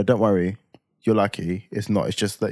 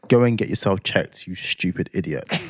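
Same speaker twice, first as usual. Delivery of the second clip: put-on scolding girlfriend; 2 semitones lower, slower than usual. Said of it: "That's what Blessing says".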